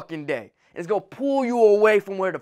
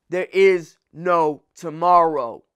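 low, slow, calm statement of There is no tomorrow; a hushed, measured There is no tomorrow after the roar; 5 semitones lower, slower than usual. Real, not acted. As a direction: settle down and say it firmly. Calm restatement after shout.

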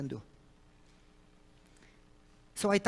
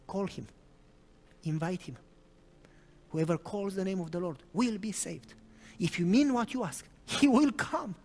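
gentle counsel. Retold or imitated. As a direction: coax her gently to call on him.

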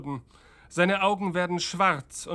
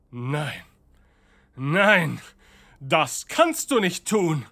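horrified; 4 dB louder than usual. Acted.

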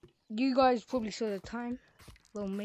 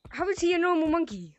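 surprised; 8 semitones higher, 7 dB louder than usual. Real, not acted. Confused by the monkey.

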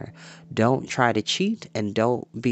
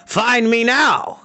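high, slow taunting cry; mighty cry; 13 semitones higher, 8 dB louder, slower than usual. Acted. Dorath taunting Taran while flinging dirt in his face, high slow cry. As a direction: heave it out as you throw the dirt. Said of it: "cried Dorath with a mighty heave".

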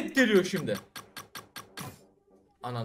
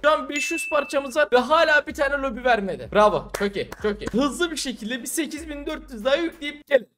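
ordinary delivery

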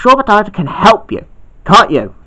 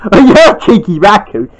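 lightly lowered man tease; 4 dB louder than usual. Acted.

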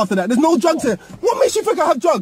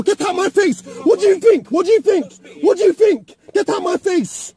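heated, insistent repeated demand; angry demand. Real, not acted. Driver orders officer out of his face, angry. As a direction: keep pressing it, hard and insistent. Angry roadside quarrel with police.

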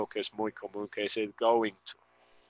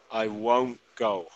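slow model; slower than usual. Shown as a demonstration. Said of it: "escuchar la pronunciación".

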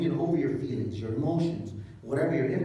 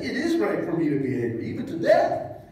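half-laughing sulky Jonah; laughing mock defiance; 3 semitones higher, 5 dB louder than usual. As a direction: Jonah laughing his defiance back at God.

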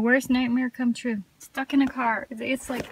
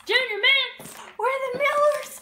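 playful; 11 semitones higher than usual. Real, not acted. Playful sing-song about candy.

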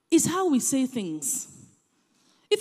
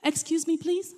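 soft, higher polite ask; polite plea; 5 semitones higher, 5 dB quieter than usual. Shown as a demonstration. Asking someone politely to step out of the way. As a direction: gently excuse yourself. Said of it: "How you say it".

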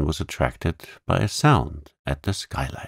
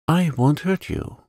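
gentle coaxing; 10 semitones higher than usual. A narrator's reading. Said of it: "speaking in a coaxing voice".

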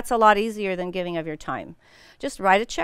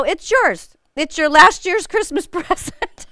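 sheepish confession; 7 semitones higher, 5 dB louder than usual. Retold or imitated. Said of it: "I go".

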